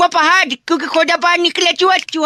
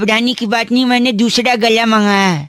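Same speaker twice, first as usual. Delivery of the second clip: rough, lower put-on throat; gravelly voice; 5 semitones lower than usual. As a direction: talk as if the throat is sore. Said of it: "मेरा गला खराब है".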